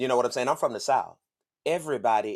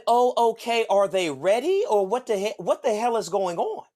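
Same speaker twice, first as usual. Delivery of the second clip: irritated snap; 6 semitones higher, 3 dB louder than usual. Retold or imitated. Mimics her then snaps.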